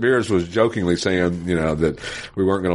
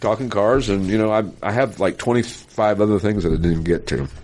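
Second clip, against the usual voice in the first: throaty forties movie star voice; hoarse from pollen allergies; 2 semitones higher than usual. Real, not acted. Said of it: "sorry for the, uh, throaty, uh, forties, uh, movie star voice".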